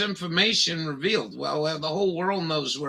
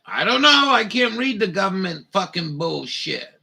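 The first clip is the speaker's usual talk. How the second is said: exasperated outburst; 3 semitones higher, 4 dB louder than usual. Real, not acted. Frustrated reading forecast.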